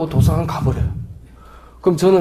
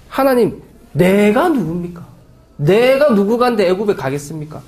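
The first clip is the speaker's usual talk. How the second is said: defiant protest; 4 semitones higher than usual. Acted. Moses protests to God, defiantly. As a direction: protest as if jabbing a finger. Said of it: "팔을 걷어붙이고 삿대질을 하는 것처럼".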